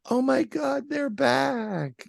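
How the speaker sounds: high excited shout. Retold or imitated. Friend's startled reaction.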